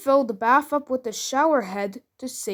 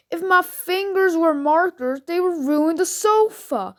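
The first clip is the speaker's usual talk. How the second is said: lightly voiced upset four-year-old, higher pitch; upset little girl; 5 semitones higher than usual. Crying four-year-old explains her worry to parent, lightly mimicked upset. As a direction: imitate a small child's complaint, pitched up. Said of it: "Four-year-old daughter is crying her eyes out".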